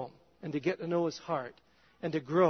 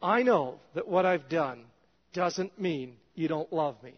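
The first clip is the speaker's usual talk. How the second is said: a lowered, earnest prayer voice; humble prayer; 3 semitones lower than usual. Retold or imitated. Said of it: "and just quickly say".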